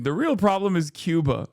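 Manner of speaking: reading the Times line with light mockery; mock quoting the Times. Streamer quotes the New York Times on Venezuela, mildly mocking. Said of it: "The New York Times chimes in".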